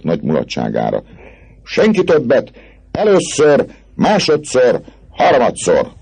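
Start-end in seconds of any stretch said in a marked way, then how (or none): 1.6-5.9 high, loud going-once, going-twice chant; auctioneer's call. A narrator's reading. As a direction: knock him down like a lot for sale. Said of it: "az árverés vezetők hanglejtését utánozva". (árverezői kikiáltás)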